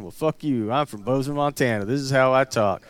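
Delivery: put-on stock redneck accent; defiant Montana redneck in a generic twang. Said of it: "the redneck voice is the same everywhere".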